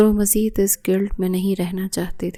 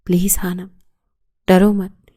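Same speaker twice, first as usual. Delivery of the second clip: whispered; 4 dB louder than usual. Acted. Begging her not to fear.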